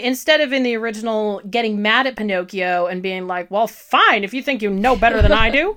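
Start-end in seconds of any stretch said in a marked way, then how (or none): 3.5-5.8 quick, indignant cartoon cricket voice; huffy cricket conscience, talking fast; horrible Jiminy Cricket impression. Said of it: "that's my horrible Jiminy Cricket impression".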